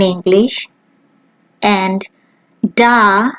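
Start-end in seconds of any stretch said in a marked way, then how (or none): 2.7-3.3 da with an open German a, dah; German da, short and open; German pronunciation. Shown as a demonstration. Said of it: "in German".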